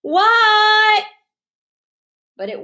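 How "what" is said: high, loud startled What. Acted. Froggy startled awake by a call. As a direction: jump at being called.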